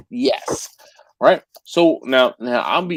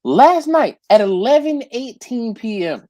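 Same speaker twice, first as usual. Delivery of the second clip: slow emphatic; 5 semitones higher than usual. Real, not acted. Emphasizing late hour complaint.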